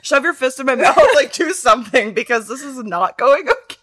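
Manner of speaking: loud, high, laughing outburst; mock exasperated yell. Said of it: "I'm like".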